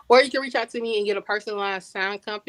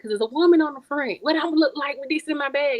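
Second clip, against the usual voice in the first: student's complaint; 5 semitones higher than usual. Retold or imitated. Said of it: "He's like".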